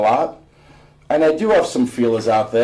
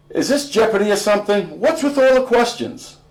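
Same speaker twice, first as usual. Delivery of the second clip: dad teasing; 9 semitones higher, faster than usual. Acted.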